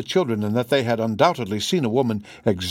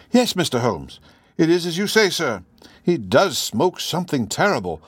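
deferential housekeeper in easy gossip; chatty housekeeper. Acted. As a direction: chat respectfully as a talkative housekeeper. Voices the housekeeper in story.

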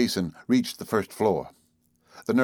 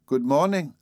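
pleasant greeting; 6 semitones higher than usual. A narrator's reading. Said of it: "looking up at him pleasantly".

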